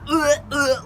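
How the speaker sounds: imitated gagging noise; mock retching. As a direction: pretend you're about to throw up. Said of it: "gonna, like, throw up".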